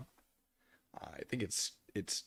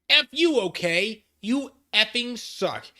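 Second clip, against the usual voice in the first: put-on shrill furious teen rant, much higher and louder; angry; 11 semitones higher, 7 dB louder, slower than usual. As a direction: rage at the reader like a bratty teen. Reading angry teen author's note.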